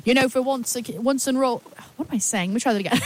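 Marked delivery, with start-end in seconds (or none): 0.0-1.6 hammed-up British interviewer; attempted British accent. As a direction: put on your best amateur British accent. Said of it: "do my best British accent".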